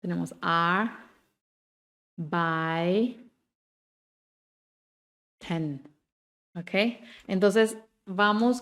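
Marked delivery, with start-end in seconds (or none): 0.4-5.8 ar, by, ten spaced slowly apart; split into syllables. Shown as a demonstration. Teacher breaks arbeiten into syllables for students, slowly. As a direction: pause between each syllable of arbeiten. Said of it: "Si separamos las sílabas".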